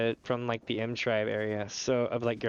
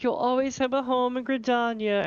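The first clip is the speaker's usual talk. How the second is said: Elder Seedseer voice; 10 semitones higher than usual. Retold or imitated. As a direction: play the Seedseer politely shooing you out. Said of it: "And they're like".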